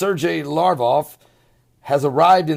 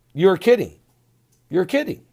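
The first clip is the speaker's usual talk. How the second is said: deadpan; 4 semitones higher than usual. Retold or imitated.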